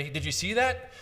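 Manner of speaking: "see that" lifted high at the end; rising question pitch. Shown as a demonstration. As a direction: ask it brightly, pitch climbing up through "did you see that". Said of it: "go up as high with that pitch".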